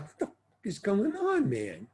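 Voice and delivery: high, baffled inner outburst; what on earth is happening here; confused mock exclamation; stunned disbelief. Bewildered inner reaction at audition.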